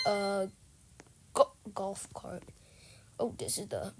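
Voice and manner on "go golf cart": whisper. Real, not acted. Whispered aside.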